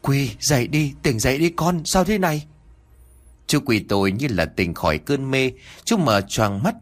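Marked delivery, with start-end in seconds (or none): 0.0-2.5 grandma pleading. A narrator's reading. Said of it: "Bà tôi tiến lại mà nói".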